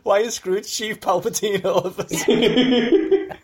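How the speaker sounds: high, loud, slow sinister voice; a hammy evil emperor; Palpatine voice. Pretend. Mocking the other's Palpatine voice.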